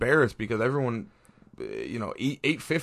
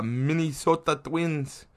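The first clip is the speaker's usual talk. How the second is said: Minnesota Twins in a half Minnesotan accent, drawn out; weird half-Minnesotan accent; 3 semitones higher, much slower than usual. Real, not acted. Podcaster reading standings, a slight Minnesotan accent. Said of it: "weird accent when I said Minnesota Twins".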